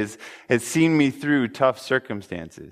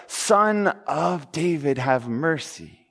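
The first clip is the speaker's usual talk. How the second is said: retold cry for mercy; 2 semitones higher, slower than usual. Mother appealing to Jesus for mercy, slow retold cry. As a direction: stretch each word as a retold appeal. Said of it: "she cries out".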